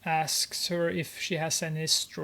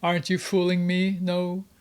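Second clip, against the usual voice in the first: angry threat; 4 dB louder than usual. Acted. Brother Hook threatening Grace.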